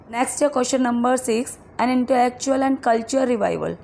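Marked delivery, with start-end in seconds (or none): 1.8-3.8 reads the question very slowly, word by word; spaced-out quiz reading; slow dictation read. Acted.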